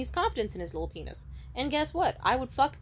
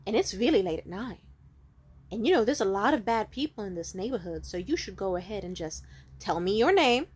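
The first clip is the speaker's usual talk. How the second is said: creepy stranger; 3 dB louder than usual. Retold or imitated. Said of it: "kept trying to be like".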